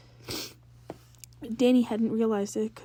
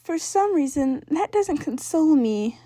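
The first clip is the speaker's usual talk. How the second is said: higher, slow, dry sister voice; unconvinced sister; 6 semitones higher, 7 dB louder, slower than usual. Acted. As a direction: drag it out, not buying it.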